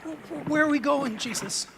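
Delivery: stammering fear. Acted. Scared disciple asks Jesus.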